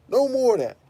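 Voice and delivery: high, loud declaration; loud final decree; emphatic yell. Real, not acted. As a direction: slam the door on it. Ranting, declaring an end.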